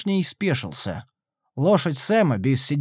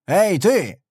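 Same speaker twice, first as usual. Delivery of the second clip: rude call; 5 semitones higher, 4 dB louder than usual. A narrator's reading. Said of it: "грубо окликнул его Дегнер".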